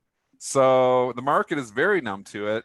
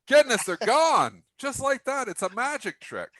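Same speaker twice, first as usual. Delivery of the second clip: amazed; 13 semitones higher than usual. Pretend. Lines vanish, mock amazement.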